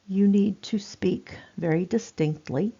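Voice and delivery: carefully separated, distinct words; demonstrating clear, distinct speech. Shown as a demonstration. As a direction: say each word distinctly for a hard-of-hearing listener. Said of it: "this is how we speak to people".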